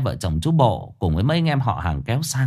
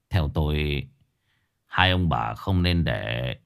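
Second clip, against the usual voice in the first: put-on old master's voice; 5 semitones lower than usual. Master gives advice, low slow.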